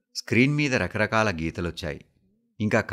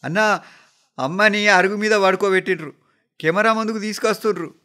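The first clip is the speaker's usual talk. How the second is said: high, urgent shout down the line; yelled, high-pitched report; loud shouting; 11 semitones higher, 7 dB louder than usual. A narrator's reading. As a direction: shout the news to your brother. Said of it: "గట్టిగా అరిచినట్లు చెప్పాడు".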